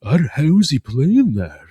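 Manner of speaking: slow mock disbelief; incredulous imitation. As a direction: imitate a baffled reactor, half laughing. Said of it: "The incredulous imbeciles".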